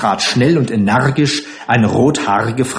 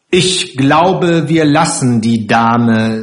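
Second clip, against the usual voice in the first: slow, deliberate; 4 dB louder, slower than usual. Acted. Karlchen drily withdraws from the quarrel.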